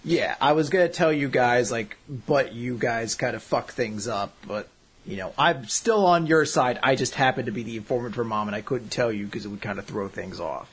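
not so sinister. Retold or imitated. Ray explains being Mom's informant, imitated low-key excuse. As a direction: play down the betrayal, mostly low-key. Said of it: "isn't nearly as sinister as it sounded".

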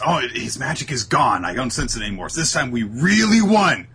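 playful imitation of a smug victory cry; mock triumphant cheer. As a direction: crow about winning like a proud kid. Voicing Noel's victory boast.

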